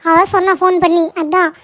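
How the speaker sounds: flustered, urgent news-breaking; agitated. Acted. Neighbour reports the woman's son is fighting, agitated. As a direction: blurt out worrying news after running over. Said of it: "ஏன் இப்படி ஒரு மாதிரி பதட்டமா வர".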